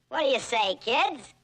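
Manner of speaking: high, loud TV host cheer-up; kiddie show host. Acted. Host rallying the studio kids, loud and bright.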